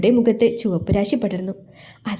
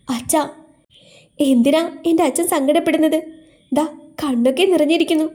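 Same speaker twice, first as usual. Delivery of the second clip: put-on girl's voice, higher, pleading; worried daughter; 6 semitones higher than usual. A narrator's reading. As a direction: coax her father out of his tears. Daughter comforting crying father. (ആകുലയായ മകൾ)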